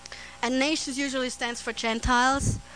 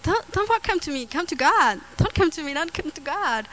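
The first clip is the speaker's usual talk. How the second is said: higher-pitched retold urging; urgent plea; 5 semitones higher than usual. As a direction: plead with an approaching crowd to turn elsewhere. Retells urging crowd in vision.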